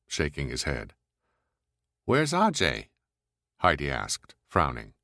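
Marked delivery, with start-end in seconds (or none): 2.0-2.9 brash woman voice. Acted. Heidi voiced.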